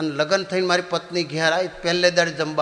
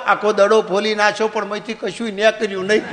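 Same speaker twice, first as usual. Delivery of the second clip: wife retort; 3 semitones higher than usual. Retold or imitated. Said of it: "મને કે".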